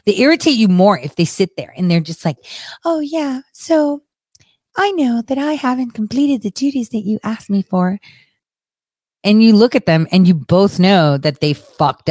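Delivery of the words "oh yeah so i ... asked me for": high-pitched, softish imitation of formal excuses; mock formal. Host mimics someone sitting there making formal excuses, high mock-proper. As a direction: put on a meek, proper official voice. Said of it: "they're using formal verbiage".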